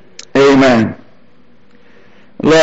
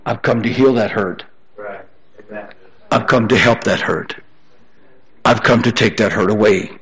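lower, softer, reassuring delivery; God consoling; 4 semitones lower, 5 dB quieter than usual. Acted. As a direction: drop the voice low and offer comfort. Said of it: "he said".

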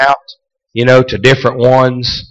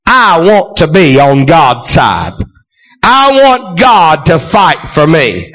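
preaching; 3 semitones higher, slower than usual. Acted. Preaching at full force.

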